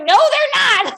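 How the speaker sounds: high, loud mock outrage; mad doctor. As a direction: shoot it down loudly, imitating an indignant doctor. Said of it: "so mad".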